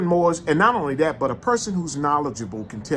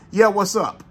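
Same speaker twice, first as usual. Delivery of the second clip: a bored, careless "Yeah, what's up?"; curt, offhand greeting; 5 semitones higher, 3 dB louder, slower than usual. Retold or imitated. Store clerk shrugging off a customer, bored and curt. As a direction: toss off "Yeah, what's up?" like you can't be bothered. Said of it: "That's what he said".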